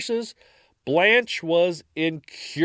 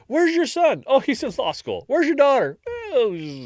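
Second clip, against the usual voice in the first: put-on French accent; 11 semitones higher than usual. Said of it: "your French accent's getting better".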